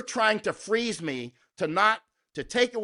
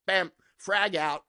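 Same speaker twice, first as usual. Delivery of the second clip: slow, deliberate "Bam, frag out"; a soldier's callout, taken slowly; slow punchy callout; slower than usual. Shown as a demonstration. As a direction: drag it out like tossing a grenade. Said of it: "what I mean by frag out".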